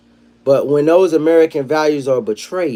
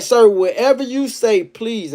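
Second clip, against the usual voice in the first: scared pleading; 8 semitones higher, slower than usual. Retold or imitated. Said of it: "He like".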